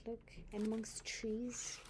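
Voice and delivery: soft hushed pointing; whispering. Real, not acted. Grandmother whispers to child.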